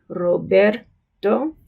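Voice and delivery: Roberto very slowly with a tapped second r; slow Roberto, one light tap on the r. Shown as a demonstration. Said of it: "has the flapped".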